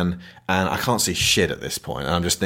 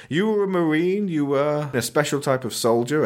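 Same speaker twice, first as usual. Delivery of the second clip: mock dossier read; 6 semitones higher than usual. Reading the hero's record.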